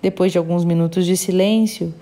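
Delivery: measured, even read-aloud storytelling; audiobook narration. A narrator's reading. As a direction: read the passage out evenly, phrase by phrase. Reads a book aloud.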